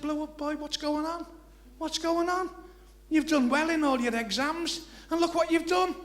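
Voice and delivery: high, loud, slow telling-off of a naughty pupil; stern headmaster. Acted. Headmaster scolding the blow-up boy, a rising loud telling-off. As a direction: wag the finger and scold, building.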